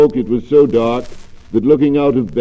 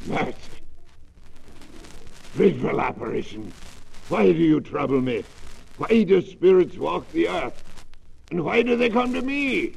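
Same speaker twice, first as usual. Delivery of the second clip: terrified; 7 semitones higher, 5 dB quieter than usual. Acted. Scrooge terrified by the ghost.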